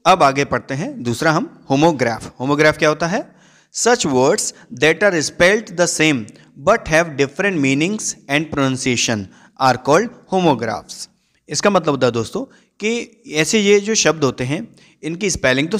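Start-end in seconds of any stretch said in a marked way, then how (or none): 3.7-11.1 slow dictation reading. Acted. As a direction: read the definition word by word, very slow. Reads English definition slowly.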